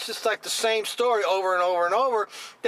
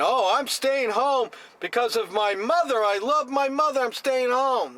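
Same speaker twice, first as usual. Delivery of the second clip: higher, sing-song mock of a self-righteous politician; 5 semitones higher than usual. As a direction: parrot him with a sneer, pitched up.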